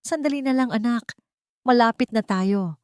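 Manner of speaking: mother soothing her weak son in the truck; pleading comfort. Acted. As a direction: coax him to hold on. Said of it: "Pagsamo niya".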